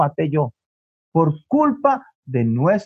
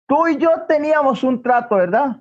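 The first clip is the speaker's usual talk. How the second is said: higher, pointed questioning as a mother; stern confronting; 5 semitones higher than usual. Acted. Mother confronts son about their deal, acted stern questioning. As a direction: press the child for an admission.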